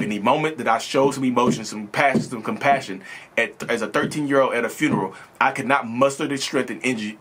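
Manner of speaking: emphatic, insistent testimony; passionate. Real, not acted. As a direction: drive each point home with conviction. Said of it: "I got passionate with this episode".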